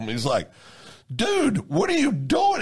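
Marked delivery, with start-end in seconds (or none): 1.1-2.6 high, imitated incredulous officer; retold stunned cop, higher; mock disbelief. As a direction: play the cop amazed at the driving.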